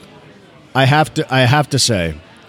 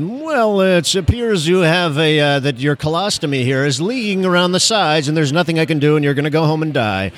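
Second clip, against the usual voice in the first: high-minded doctor; 3 semitones higher than usual. Retold or imitated. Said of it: "talking with a high-minded".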